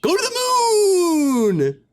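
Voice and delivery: very high, loud, slow yell; screamed command. Retold or imitated. A person screaming at John, drawn-out high yell. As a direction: scream it across the room. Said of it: "it's like".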